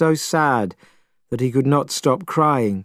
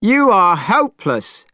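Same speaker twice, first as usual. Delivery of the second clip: angry shout; 7 semitones higher than usual. A narrator's reading. Monkey yelling at the crying priest, exasperated. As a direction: spit out the word hopeless twice. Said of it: "shouted Monkey".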